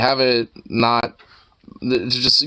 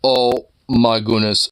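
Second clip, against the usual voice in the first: cooing; slower than usual. Real, not acted. Cooing at fluffy cat picture.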